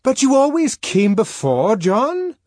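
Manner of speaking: high, loud coaxing plea; pleading at the top of the voice; shouted persuasion. A narrator's reading. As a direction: shout coaxingly through a locked door. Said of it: "at the top of one's voice".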